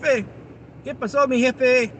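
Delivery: put-on slow, high-pitched stab at a Chilango accent; playful Mexican accent for a viewer from Mexico City; Mexican Spanish greeting. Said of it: "Did I say it right or no?".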